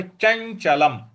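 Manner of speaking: चंचलम with a palatal ñ before च; nasal before च. Shown as a demonstration. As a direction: sound the ñ in चंचलम clearly. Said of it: "च के बाद य है". (चंचलम में च से पहले ञ का स्पष्ट उच्चारण)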